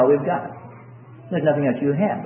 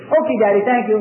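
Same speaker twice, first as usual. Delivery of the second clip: lightly voiced child, higher pitch; trusting little child; 4 semitones higher, faster than usual. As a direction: chirp thanks, imitating a child. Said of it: "because they have childlike faith".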